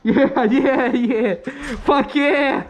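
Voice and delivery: laughing victory whoop; excited cheer. Real, not acted. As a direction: celebrate the kill. Celebrating a kill, laughing.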